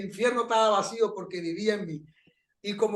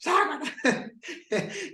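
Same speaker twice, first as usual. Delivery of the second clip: mock tongues; 8 semitones higher than usual. Preacher re-enacts his tongues outburst in church, mock tongues. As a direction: burst of imitated tongues syllables, higher pitched. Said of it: "hablaba en lengua".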